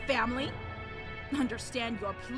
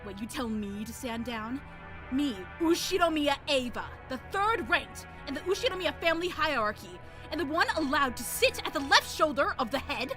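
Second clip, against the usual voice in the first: aggressive haughty noblewoman. Acted. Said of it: "she was now unimaginably aggressive".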